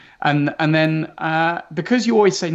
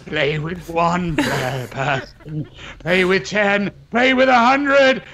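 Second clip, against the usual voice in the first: booming movie-trailer announcer, low and slow; deep trailer voice; slower than usual. Pretend. Game developer hams up a trailer read for his colleague, deep announcer voice. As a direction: sell it like a cinema trailer narrator. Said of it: "I've got to get my deep voice going".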